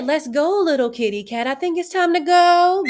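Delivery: sassy kitty cat. Pretend. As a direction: coax her out the door, diva style.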